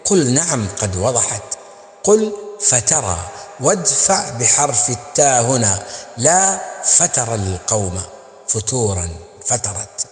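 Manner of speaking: measured, chanted poem recital; Arabic didactic verse recital; poem recitation. Acted.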